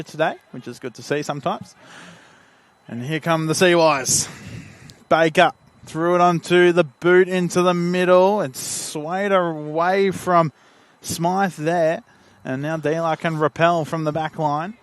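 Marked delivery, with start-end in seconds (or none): 2.9-14.7 raised, drawn-out football call; building match commentary; live play-by-play. Real, not acted. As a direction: stretch the words as the ball travels.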